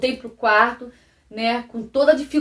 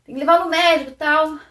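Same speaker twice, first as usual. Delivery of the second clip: higher, dismissive voicing of the stepfather; man's retorted reply; 5 semitones higher, 4 dB louder than usual. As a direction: brush off the request, evasive. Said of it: "Ele falou assim".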